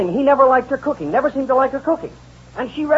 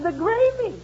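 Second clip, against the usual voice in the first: high, mock-offended wife; indignant wife; 6 semitones higher than usual. Wife offended about her gravy, high mock-indignant voice. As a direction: bristle at the insult, comic.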